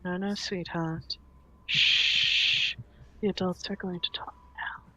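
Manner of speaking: put-on soft, hushed shushing to a child; soothing hush. Elegant woman hushes the small girl to sleep, soft whisper. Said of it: "brushes her delicate fingers across her cheek and goes".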